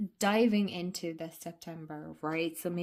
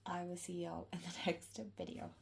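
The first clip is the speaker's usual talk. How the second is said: whispering; 10 dB quieter than usual. Real, not acted. Whispered sign-off with laugh.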